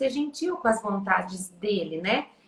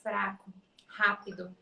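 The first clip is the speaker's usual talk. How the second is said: soft demo; 3 semitones lower, 5 dB quieter than usual. Shown as a demonstration. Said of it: "essas instruções e ele tendo".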